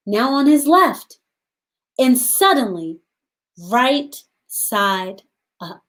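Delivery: put-on gentle read-aloud for young children; storybook reading. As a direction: read the story to the class, unhurried. Teacher reads picture book aloud.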